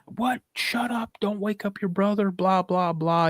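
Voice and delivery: imitating dad. Dad hushing son at night.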